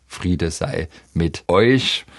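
slow, drawn-out solemn quote; quoted greeting, unhurried and measured; slow peace greeting. Retold or imitated. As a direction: say it slowly, lingering on each word. Quotes Jesus's last peace greeting.

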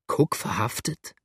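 a Yankee's astonished echo, lightly voiced. A narrator's reading. Yankee hears of Cook's arrest, astonished question. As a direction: repeat it in disbelief. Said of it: "vor lauter Verwunderung".

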